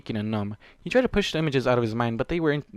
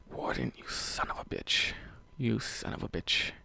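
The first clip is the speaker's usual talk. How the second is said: slow, breathless whispered curse; exasperated whisper; 2 semitones lower, 6 dB quieter than usual. Real, not acted. Reader cursing the character, a real slow whisper. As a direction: whisper it in disbelief. Reader reacting to sad scene.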